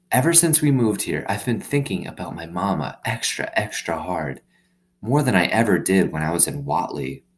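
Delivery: put-on a girl confiding in her new dog; young girl Opal.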